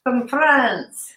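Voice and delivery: playful grand hello to the niece with the new haircut; teasing greeting. Retold or imitated. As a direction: announce her like a French star arriving. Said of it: "I would be like".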